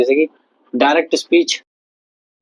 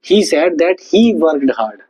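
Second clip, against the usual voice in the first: slow dictation; much slower than usual. Shown as a demonstration. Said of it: "teacher models indirect sentence".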